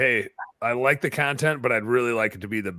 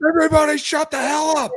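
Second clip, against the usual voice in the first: very high, loud, acted-out yell; 6 dB louder than usual. Retelling standing up to quiet a noisy room: retelling own yell. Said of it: "I stood up and I just yelled".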